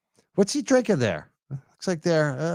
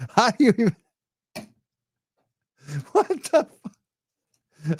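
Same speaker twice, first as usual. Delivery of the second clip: incredulous; 5 semitones higher than usual. Real, not acted. Disbelief at speaker's greeting.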